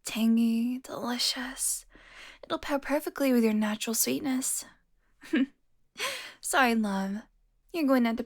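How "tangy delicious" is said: savouring. Acted. Vampire savouring scent of blood.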